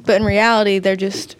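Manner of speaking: talking around a retainer; slight lisp, retainer in. Real, not acted. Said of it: "excuse my lisp. I'm still wearing my retainer".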